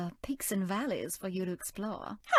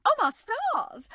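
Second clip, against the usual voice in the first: higher and louder, slow, scandalized; flustered gasp; 12 semitones higher, 4 dB louder, slower than usual. Acted. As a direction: gasp like a shocked Southern lady. Flustered exclamation.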